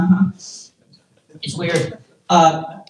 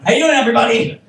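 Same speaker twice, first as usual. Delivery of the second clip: raised, higher greeting to the room; calling out to crowd; 5 semitones higher, 4 dB louder, much faster than usual. Pretend. Comic opening crowd work, calling out. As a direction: hail the whole room.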